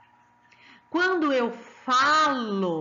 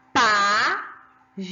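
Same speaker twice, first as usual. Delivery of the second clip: "Páginas" split into slow syllables, first one louder; 2 semitones lower, 6 dB louder, much slower than usual. Shown as a demonstration. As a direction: stretch and stress the PÁ in "Páginas", pausing between syllables. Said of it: "Escuta que a professora vai falar". ("Páginas" sílaba por sílaba, com o PÁ mais forte)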